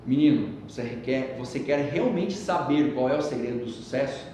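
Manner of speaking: a hint of a grave sage; old sage. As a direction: speak like a patient old master. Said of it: "e falou".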